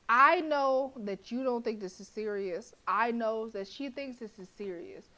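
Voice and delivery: real irritation, hammer it home; annoyed rant. Real, not acted. Arguing back at the characters.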